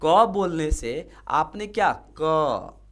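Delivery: "क" said slowly, stretched to show its vowel; teacher drawing out "क"; demo consonant sound. Shown as a demonstration. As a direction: stretch "क" so the "अ" inside is heard. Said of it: "लेकिन अगर हम बोलेंगे क".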